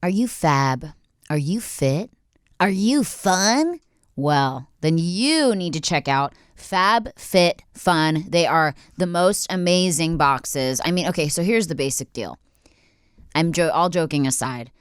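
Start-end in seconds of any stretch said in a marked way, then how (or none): 0.0-10.8 slow, upbeat ad read; playful podcast ad voice. Acted. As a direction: sell it like a sponsor spot. Sponsor read.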